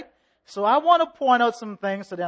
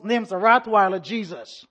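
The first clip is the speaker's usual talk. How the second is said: laughing punchline; 3 dB louder than usual. Real, not acted.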